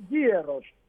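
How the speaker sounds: γίερος drawn out slowly with a y glide after γ; slow yi-e-ros for γίερος; inserted i sound. Shown as a demonstration. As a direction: let an ι show between γ and ε in γίερος. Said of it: "Βάζω ένα «η», σαν «J»".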